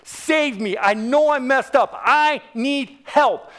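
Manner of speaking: retold plea, building in force; emphatic plea, last words drawn out; crying out. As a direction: cry out for help, slowing hard at the end. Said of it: "I cried out to Jesus".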